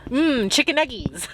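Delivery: high-pitched, playful imitation of licking chops; hungry little pet voice. Voicing her child eyeing the birds, high hungry voice. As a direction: savor it in a cutesy high voice. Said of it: "she was licking her chops".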